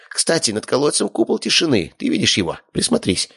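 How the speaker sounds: a small magical rat pointing it out; squeaky familiar. A narrator's reading.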